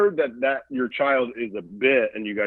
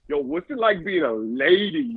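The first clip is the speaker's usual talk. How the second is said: slow, higher-pitched put-on Black American accent; thick Black accent; 4 semitones higher than usual. Comic pretends to be a caller, mock Black American accent. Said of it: "he had, like, a thick black accent".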